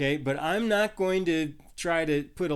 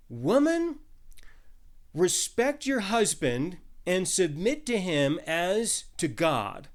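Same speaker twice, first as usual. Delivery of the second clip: exaggerated command; slower than usual. Shown as a demonstration. Preacher mock-commands wives with an exaggerated stern call. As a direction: lay down the law in mock sternness. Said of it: "in kind of an exaggerated way".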